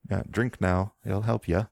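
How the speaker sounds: a Southern Isle healer scolding her patient to lie still; thick Southern Isle accent. Acted. Priestess warning the wounded rider not to sit up, thick Southern Isle accent. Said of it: "in a thick Southern Isle accent".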